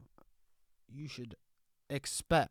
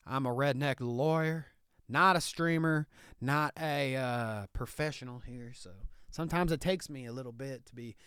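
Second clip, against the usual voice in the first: Southern hick lawyer bit, laid on thick; redneck Southern lawyer. Acted. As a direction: play a proud country lawyer in a thick Southern accent. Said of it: "What's with this accent, Nicky".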